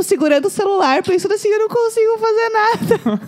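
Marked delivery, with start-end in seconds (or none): 1.5-3.2 retold crying. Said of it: "comecei a chorar muito".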